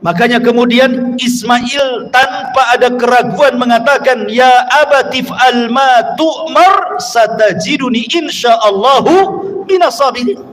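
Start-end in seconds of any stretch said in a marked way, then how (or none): 4.3-10.4 slow Quranic quotation with stretched vowels; Arabic verse recitation. Acted. Preacher quotes Ismail's answer to his father, slow recitation. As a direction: recite the Arabic slowly and deliberately.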